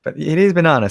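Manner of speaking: Australian accent, banana with a broad ah. Shown as a demonstration. Streamer teasing her co-host about his Australian accent. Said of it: "See how Aussie you sounded".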